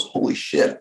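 gehauchtes Staunen; flüstert ehrfürchtig, fast tonlos; whispered awe. Retold or imitated. Awestruck gangster quoted in story.

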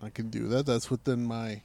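soft, low grudging yes; barely committed reply; mock reluctant agreement. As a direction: shrug it off under your breath. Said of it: "I'm like".

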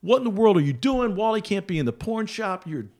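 high-pitched imitation of a scolding; mock tongue lashing. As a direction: scold him like an exasperated boss. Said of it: "gives me a tongue lashing".

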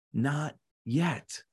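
soft, unmoved refusal; calm master. Acted. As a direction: drop to a quiet answer. Master calmly refuses once more.

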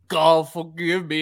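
dramatic, slowed final words; hammed-up last prayer; mock solemn plea. Imagining the hero's last words, mock solemn. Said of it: "He's like".

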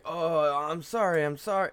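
high, loud mock apologizing; imitated frantic apology. Woman who stopped apologizing to dad, mock frantic. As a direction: voice her apologizing, pitched right up. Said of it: "She's like".

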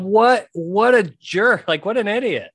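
loud, slow jeering scoff; mocking jeer. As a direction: scoff like a Twitter crowd roasting him. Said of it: "Twitter just roasted this dude, going".

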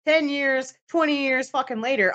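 high emphatic insistence. Real, not acted. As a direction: stress the twenty years. Emphatic exasperation.

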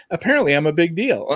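mock boasting. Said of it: "Kidding, kidding".

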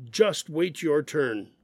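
slow, stern scolding with just hit hard; firm, frustrated reprimand. Shown as a demonstration. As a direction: tell off a child who misbehaved. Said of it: "sounds like somebody misbehaved and they got scolded".

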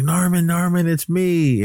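high-pitched imitation of a frantic woman; acted-out desperate plea; mock pleading. Retold desperate plea to attacker.

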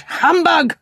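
high-pitched, indignant scoff; scornful outburst. A narrator's reading. Scrooge dismissing Christmas to his nephew, scornful.

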